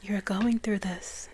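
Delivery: slow, soft whisper; imitating her whisper. Channeled goddess reassuring the speaker, slow whisper. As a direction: whisper it slowly as the goddess did. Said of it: "That's how she was speaking".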